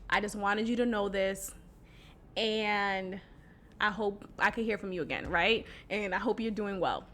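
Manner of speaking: softly voiced remorseful ex; soft sincere apology. Shown as a demonstration. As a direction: say it gently, meaning every word. Voices ex's ideal apology text.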